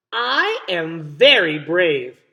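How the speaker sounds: slow, self-satisfied boast; proud little girl. Acted. Sheila Ray praising herself, slow proud boast. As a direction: puff yourself up and say it proudly. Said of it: "Sheila Ray said, patting herself on the back".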